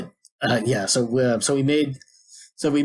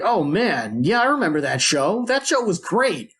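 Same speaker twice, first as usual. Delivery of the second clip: excited party guests; 6 semitones higher than usual. Retold or imitated. Party guests fondly remember the show, imitated gushing. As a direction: gush like an impressed party guest.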